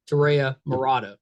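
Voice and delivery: guest's name in a Virginia accent. Real, not acted. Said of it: "with a perfect Virginia accent".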